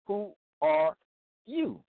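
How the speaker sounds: "you" leaps high at the end of the question; stress on you. Shown as a demonstration. Preacher pressing the listener, stressing "you". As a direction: lean hard on "you" in "Who are you?". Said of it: "it's about you".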